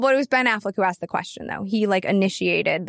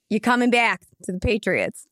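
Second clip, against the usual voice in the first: put-on horrible Boston accent. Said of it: "That was a horrible accent".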